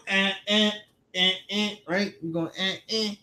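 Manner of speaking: high little fussy grunts; imitating baby fussing. Dad mimicking his son's fussing noises, high grunts. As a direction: copy the toddler's whiny eh sounds. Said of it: "like, going".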